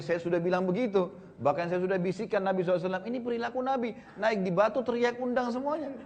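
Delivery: high-pitched excuse, rising as it goes; acted husband justifying himself; retold defensive protest. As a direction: protest to the wife that it was not your doing. Husband defends himself to his wife.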